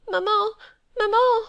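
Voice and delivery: put-on small boy's very high, loud cry for his mother; crying child. A narrator's reading. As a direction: wail for mama as a frightened toddler. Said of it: "cried the little fellow".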